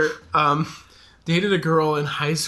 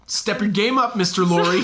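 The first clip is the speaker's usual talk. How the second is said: mock British coaching; 4 semitones higher than usual. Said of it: "the R isn't quite hard enough".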